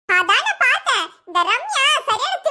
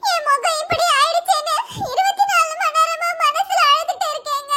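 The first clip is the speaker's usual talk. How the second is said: sobbing plea; 4 semitones higher than usual. Acted. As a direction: plead through sobs to her husband. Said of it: "என் முன்னாடி அழுது இப்படி irritate பண்ணாத". (அழுகையுடன் மன்றாடல்)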